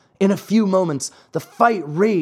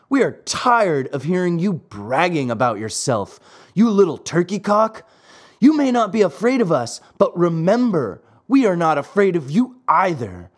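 a touch of schoolboy menace, pitched up; lightly voiced bully; 4 semitones higher than usual. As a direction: warn him like the leader of a gang. Tallest boy threatens.

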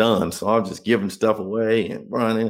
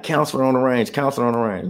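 raised, higher call down the cell block; guard calling out; 5 semitones higher than usual. Retold or imitated. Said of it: "So now they like".

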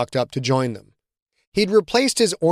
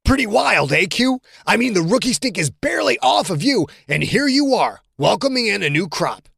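lightly voiced cocky teammate, higher; teasing teammate; 7 semitones higher than usual. John ribbing Quentin about the rookies, mock teasing. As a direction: needle the rookie with a grin.

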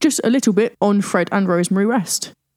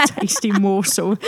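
witch voice; slower than usual. Retold or imitated. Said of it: "You sound like the witch from Hansel and Gretel".

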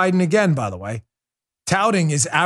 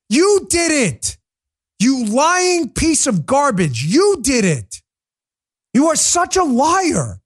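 furious shout; 9 semitones higher, slower than usual. Real, not acted. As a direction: hurl each word at him like an accusation. Shouting at Biden in rant.

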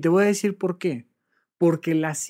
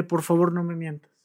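gentle plea. Shown as a demonstration. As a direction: ask kindly, almost pleading. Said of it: "con un toquecito de empatía".

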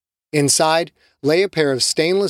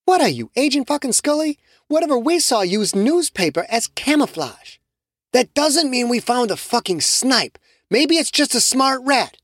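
put-on higher-pitched young woman, sneering; scornful Shamiqua; 10 semitones higher than usual. Shamiqua mocking Carlos, higher scornful voice. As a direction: scoff at him with raised voice.

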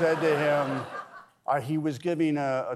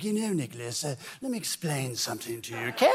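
lightly put-on mid-Atlantic accent; a hint of a refined mid-Atlantic accent; August's mid-Atlantic accent; faster than usual. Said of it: "he liked to speak with this mid-Atlantic accent".

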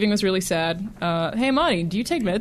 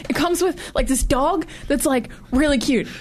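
gushing excited; 6 semitones higher than usual. Pretend. Mocking excited fan.

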